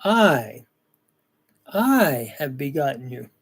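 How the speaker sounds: emphatic, isolated "I", the rest easing off. Shown as a demonstration. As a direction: lean hard on "I", pause, and stretch it the second time. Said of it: "but it's emphatic".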